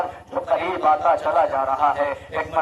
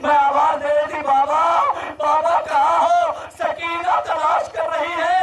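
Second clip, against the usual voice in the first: impassioned lament preaching; 9 semitones higher than usual. Acted. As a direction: raise the grief line by line into a long keening call. Preacher's lament rising to a cry. (ऊँचे सुर में दर्द भरा मसायब, पुकार तक चढ़ता हुआ)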